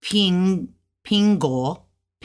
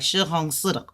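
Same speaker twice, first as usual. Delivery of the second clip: native-speed demo of the sentence; real fast. Shown as a demonstration. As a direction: run "Shi hong se da" together quickly. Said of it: "it's gonna go real fast".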